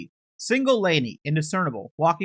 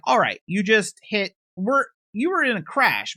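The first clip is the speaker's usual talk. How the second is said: higher and louder, a deputy urging the driver; urgent raised call; 5 semitones higher, 4 dB louder than usual. Acted. Deputy tells the driver she crashed, raised and urgent.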